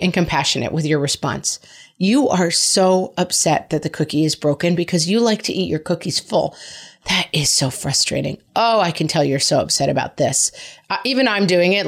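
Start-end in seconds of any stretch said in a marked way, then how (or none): 2.0-10.5 hammed-up soothing talk to a toddler; mock sympathy. Shown as a demonstration. Mom showing how to mirror a toddler's upset, mock sympathetic. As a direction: lay the sympathy on a bit thick, half joking. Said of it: "I'm kinda goofing on the kid".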